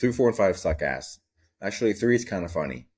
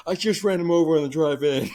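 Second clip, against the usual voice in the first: high creepy voice; 10 semitones higher, 4 dB louder than usual. Retold or imitated. Uncle telling his niece bad news, high creepy voice. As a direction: announce doom in a strange high voice.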